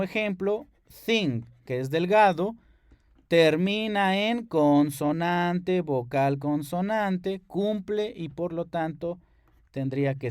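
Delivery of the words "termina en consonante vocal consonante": pattern spelled slowly. Shown as a demonstration.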